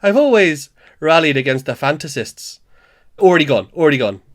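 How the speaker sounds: put-on shaky-footed Welsh accent, declaimed; attempted Welsh accent. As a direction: perform a monologue in an amateur Welsh accent. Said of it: "I'm no good at the Welsh accent".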